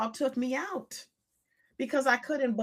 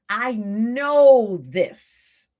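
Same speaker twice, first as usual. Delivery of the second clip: drawn-out, heavy I know this; slow loud recognition; 10 dB louder, much slower than usual. Retold or imitated. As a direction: stretch it out with dread. Dread of familiar pain.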